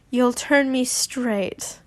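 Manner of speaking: slow, stifled giggle; trying not to laugh; holding back laughter. Acted. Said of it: "trying not to laugh".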